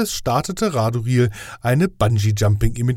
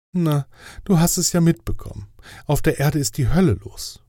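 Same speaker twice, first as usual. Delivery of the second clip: higher, official angel voice; fussy inspector angel; 4 semitones higher than usual. Acted. Inspector angel grading Death's test, higher official voice. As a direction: play the strict inspector angel, pitched up.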